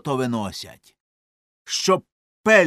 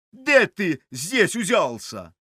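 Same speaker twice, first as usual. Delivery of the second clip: higher, prying petty official; lightly voiced clerk; 6 semitones higher than usual. A narrator's reading. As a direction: poke at the stranger lightly. Countryman clerk questions narrator.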